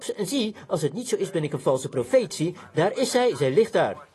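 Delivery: emphatic, driven sermon delivery; fiery preaching. Real, not acted. Preacher warning sinners that their hour has come, fiery preaching. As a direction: pronounce judgement with force. Preaches against the fallen city.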